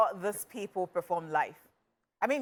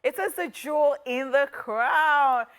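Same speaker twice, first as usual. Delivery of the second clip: slow grand hype introduction; announcer hype intro; 2 semitones higher, slower than usual. Acted. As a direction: announce yourself like royalty. Grand self-introduction as host.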